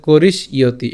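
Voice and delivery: "করিস", then "ইয়তি", closing the first part on sh; split pronunciation. Shown as a demonstration. Teacher explaining the ya sign, careful "করিস ইয়তি". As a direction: break "করিস ইয়তি" after the sibilant. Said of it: "এখানে করিস পর্যন্ত উচ্চারণ করলাম".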